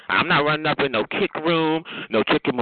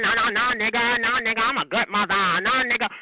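mocking imitation; 6 semitones higher than usual. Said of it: "And you're like".

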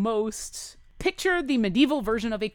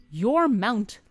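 Waylon's voice. Acted.

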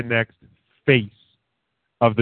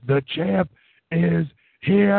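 higher, stretched ring-announcer call rising at the end; Justin Roberts announcer; 6 semitones higher, slower than usual. Retold or imitated. Podcaster imitating a ring announcer calling the champion, stretched and rising. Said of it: "he goes full Justin Roberts".

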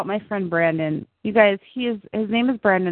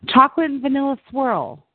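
Crazy Eyes voice; 5 semitones higher than usual. Acted. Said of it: "I'm gonna read you a character here".

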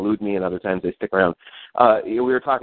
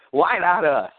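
booming radio announcer hype; radio guy voice; 8 semitones higher, slower than usual. Shown as a demonstration. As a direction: sell it like a radio host. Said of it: "my radio guy voice".

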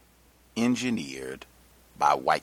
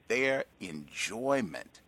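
"enjoyment" drawn out with deliberate weight; stress on enjoyment; 5 dB quieter, much slower than usual. Real, not acted. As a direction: lean hard on the word "enjoyment". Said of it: "I cannot emphasize that word enough".

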